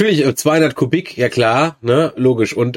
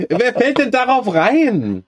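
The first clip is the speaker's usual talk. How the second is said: incredulous; 11 semitones higher, slower than usual. Real, not acted. Incredulous laughing reaction.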